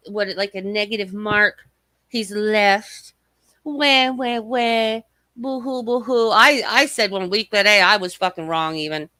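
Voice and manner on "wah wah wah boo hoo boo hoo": mocking fake crying in words; mock whining. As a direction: taunt with sing-out baby wails, badly faked. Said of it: "same fucking boo-hoo and whining".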